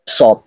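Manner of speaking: সদ with a heavy, full s; thick sad. Shown as a demonstration. Teacher contrasting the heavy সদ for students. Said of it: "আওয়াজটা যদি একটু মোটা হয়".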